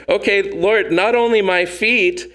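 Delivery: imitating overeager Peter, lightly voiced; eager overcorrection. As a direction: throw yourself all in, overeager. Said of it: "That was Peter".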